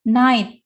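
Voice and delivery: NIGHT as one syllable with the T attached; final T attached. Shown as a demonstration. Teacher showing students how the word is read, final T attached. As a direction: say NIGHT firmly, ending straight on the T. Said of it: "tapi night langsung ny-, nyantol".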